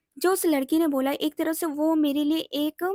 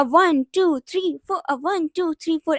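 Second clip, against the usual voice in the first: lightly imitated workout-video counting; aerobics instructor count; 3 semitones higher, 5 dB louder, slower than usual. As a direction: count out the beat like an exercise teacher. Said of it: "ऐसे करके नहीं सिखाते हैं". (Aerobics teacher जैसी हल्की नकल वाली गिनती)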